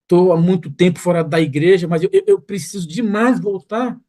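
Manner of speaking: rising, faltering plea with stammered eu; desperate pleading. Retold or imitated. A young man pleading with the pastor to return, high faltering voice. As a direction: beg to come home, voice climbing.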